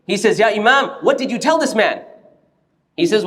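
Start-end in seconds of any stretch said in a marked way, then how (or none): 0.4-2.0 mildly indignant challenge; retold demand, a touch of anger; a bit angry. Other scholar confronting Imam at the door, a bit angry. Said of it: "he's a bit angry".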